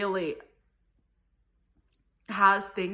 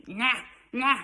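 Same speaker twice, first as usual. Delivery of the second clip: put-on toddler refusal; 4 semitones higher, 3 dB louder, slower than usual. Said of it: "he's like".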